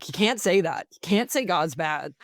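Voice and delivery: lightly voiced indignant little tattletale; mock tattling kid. Six-year-old reporting a classmate, mock tattling. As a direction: imitate a kid telling on someone, pitch swooping up. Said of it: "But I fully tattled. I was like".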